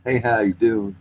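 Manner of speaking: easygoing imitation of a Texan cousin; understated Texan impression; mild Texas accent. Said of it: "he'd be just kinda talking like this".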